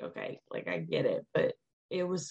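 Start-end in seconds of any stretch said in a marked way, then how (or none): 0.0-1.2 unvoiced whispered okay I get it; muttered aside. Answering her friend's sarcastic advice, whispered. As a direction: breathe it out like a sulky whisper. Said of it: "I'm like".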